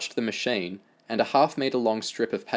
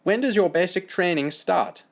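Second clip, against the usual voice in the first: higher German doctor's question; German-accented doctor, brisk; 10 semitones higher than usual. Acted.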